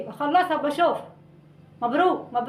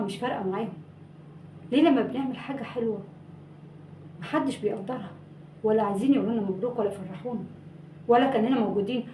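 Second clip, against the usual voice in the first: hurt monologue; 2 semitones lower, 4 dB quieter than usual. Acted. Miro's wounded monologue to Saadia.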